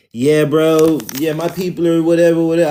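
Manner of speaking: badly faked Hawaiian bro accent; mock Hawaiian accent. Host imitating how some Native Americans speak, half-hearted Hawaiian accent. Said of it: "they sound like a Hawaiian".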